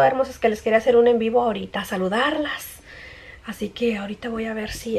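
ordinary talk

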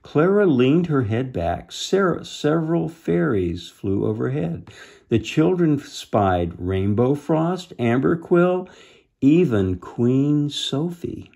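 animated storybook voice; story narration. A narrator's reading. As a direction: list the marvels with growing wonder. Reads storybook aloud.

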